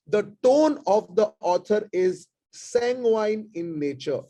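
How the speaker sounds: slow, measured reading of each example sentence; slow dictation. Acted. Teacher dictating tone examples to online students, slow and measured. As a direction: read them out slowly so students can note them down.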